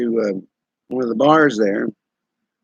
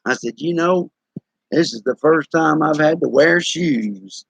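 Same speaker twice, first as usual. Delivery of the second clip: laying it on thick; 2 semitones higher than usual. Retold or imitated. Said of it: "I started laying it on thick".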